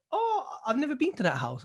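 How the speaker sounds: high, laughing put-on voice of the builder; mock the builder's innocent denial with a laugh; imitating a sheepish contractor, laughing. Contractor denying, quoted with laugh.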